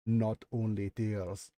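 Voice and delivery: put-on slow, low Nyxborian accent; old record keeper's thick Nyxborian accent. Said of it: "thick in Nyxborian accent".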